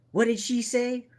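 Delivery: high-pitched, acted bewilderment; puzzled acted question. Player turns to Guy in character, high puzzled question.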